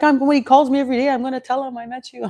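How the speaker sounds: high and fast, a delighted retold mother; bubbling over as she quotes the old neighbour; excited older woman. Quoting the seventy-five-year-old mother, high and thrilled. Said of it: "She's like".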